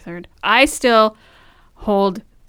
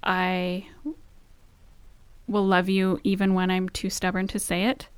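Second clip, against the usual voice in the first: heartfelt vows. Real, not acted. Reciting wedding-style vows.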